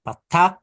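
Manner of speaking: "Patak" said with a rise, both a's open; naming the vowel. Shown as a demonstration. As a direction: teach the name "Patak". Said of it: "the name for this single line is patak".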